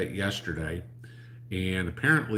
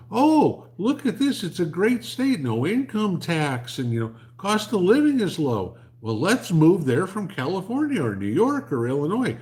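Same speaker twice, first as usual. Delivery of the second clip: much higher, louder, gushing mockery of newcomers; mock transplant voice; 8 semitones higher, 8 dB louder than usual. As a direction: ham up a clueless, gushing out-of-stater. Mocking people moving from California.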